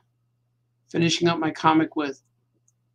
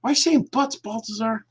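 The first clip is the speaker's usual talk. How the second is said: squeaky high little voice; high teasing voice; 5 semitones higher than usual. Acted. Voiced figure teases again.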